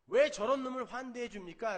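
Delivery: mock furious demand; angry protest. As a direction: hurl the complaint at the father. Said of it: "화를 내면서". (동생을 환대하는 아버지께 화내며 따지는 큰아들)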